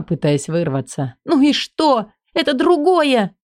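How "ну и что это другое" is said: Элли's voice. Acted. Элли higher.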